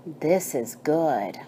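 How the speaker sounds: slow hushed whisper, low; whispered God. Acted. God admiring the sky, in a slow whisper. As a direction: breathe the words out softly like a secret blessing.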